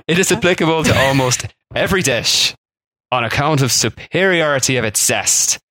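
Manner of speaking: a Worcestershire try drifting into Irish; mock Irish lilt reading an old advert; accidental Irish accent. Shown as a demonstration. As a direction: read the ad in a slipping, half-Irish accent. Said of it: "I've definitely gone Irish".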